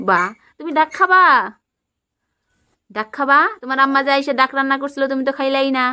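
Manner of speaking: put-on high, bright play voice for a small child; playful toddler-talk. Mother playing house with her toddler, high coaxing voice. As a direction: coax the little one along in pretend play.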